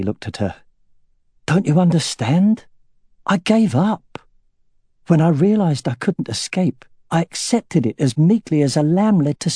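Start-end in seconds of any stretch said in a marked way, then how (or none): 1.5-9.5 raised, pained and pleading; a lightly voiced husband breaking down over his surrender; anguished confession. Husband confessing to his wife he gave up, anguished.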